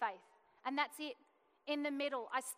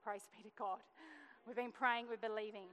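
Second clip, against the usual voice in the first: a hushed praise to God; stunned, grateful praise in the dentist's room; awed praise. Retold or imitated. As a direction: breathe out thanks in wonder. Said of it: "I just stood there and went".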